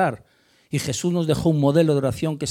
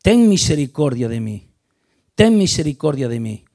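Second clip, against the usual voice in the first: loud begging cry for mercy; loud plea; 2 semitones lower, 6 dB louder than usual. Retold or imitated. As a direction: plead loudly, calling out. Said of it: "le está diciendo". (súplica a gritos)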